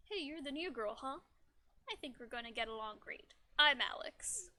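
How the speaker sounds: lightly put-on man voice; a hint of a guy's voice, loud on the name; Alex. Game character greets the new girl, light man voice. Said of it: "no more man voice".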